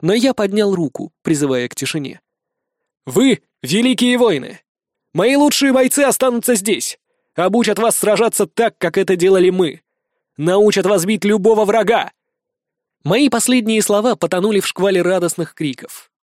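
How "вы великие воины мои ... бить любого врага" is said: raised-pitch address to warriors; rally the troops before you; high, emphatic oratory to a crowd; rousing leader's speech. Acted.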